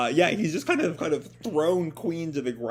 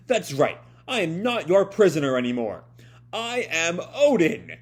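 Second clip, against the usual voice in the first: louder, proud, slowing to a firm "I am Oden"; defiant declaration; 3 semitones higher, 5 dB louder than usual. Acted. Yamato telling the guards he is not a prisoner, proud and defiant. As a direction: claim the name with pride. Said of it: "Yamato, um, responds".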